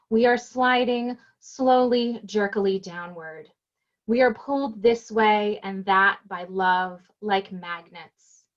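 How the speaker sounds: measured elegy, unhurried and even; deliberate poet's cadence, easing down at line ends; poem reading. Acted. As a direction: recite slowly, letting each line settle. Reads own elegy aloud.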